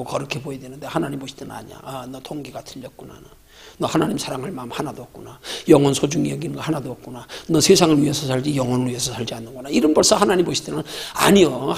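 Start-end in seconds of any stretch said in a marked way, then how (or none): 1.8-9.7 lower, softer voice of God seeing the heart; a hint of a disappointed God; voicing God's judgement. Preacher voicing God judging a hypocrite, lower and softer.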